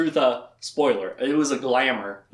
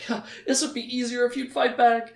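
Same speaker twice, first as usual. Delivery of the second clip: mock Berdine; 8 semitones higher than usual. Berdine voiced in retelling.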